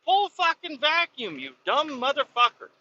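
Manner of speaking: high-pitched exasperated insult; retold angry order. Driver repeating the order to a clueless kid, exasperated. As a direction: repeat the order at the end of your patience, voice up high.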